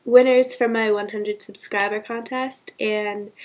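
blocked nose, sick voice; stuffy nose. Real, not acted. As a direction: speak through a blocked nose. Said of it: "so sorry if I sound, like, stuffy".

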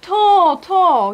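high, loud pleading wail; desperate high loud cry. A narrator's reading. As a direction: wail it out in a panic. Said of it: "jęczała Gabriela".

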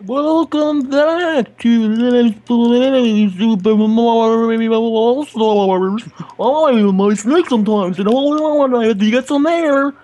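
slow bubbly voice as if underwater. Pretend. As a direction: talk like you're under water. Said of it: "That was amazing".

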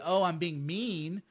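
slow, drawn-out mocking "oh"; mock crying complaint. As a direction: mimic a complainer, dragging the words. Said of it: "You can cry about it".

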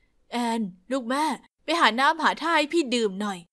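a gentle mum, lightly voiced; gentle mother. Mother asks daughter for water.

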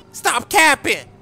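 angry rapper impression. Student protesting the unfair teacher, a rapper's voice. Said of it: "a rapper, baby".

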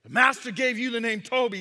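high, loud, fierce shouted order; commanding slave-whipper. Acted. Whipper over the man on the ground, furious command. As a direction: explode on the command, then drive on. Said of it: "once again, he says".

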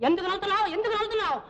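ordinary delivery

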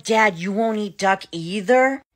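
high, eager, hopeful ask; hopeful question. Retold or imitated. To her dad at dinner, high and hopeful. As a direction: lean in hoping he agrees.

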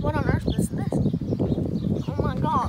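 reacting to sour candy in mouth; eating sour candy. Real, not acted. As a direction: pucker and react to sourness. Reacting to extreme sourness.

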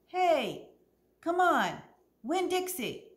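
high, loud eager call; calling a dog. Acted. Opal calls the dog Winn-Dixie for the first time, eager call. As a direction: call him by his new name.

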